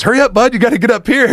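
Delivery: high, loud calling out; urgent shout. Retold or imitated. Friend urging from above.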